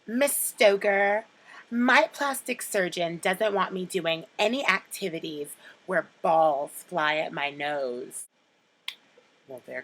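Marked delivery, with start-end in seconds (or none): 0.0-8.2 quoting Cher. Retold or imitated. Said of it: "my top three quotes from Clueless".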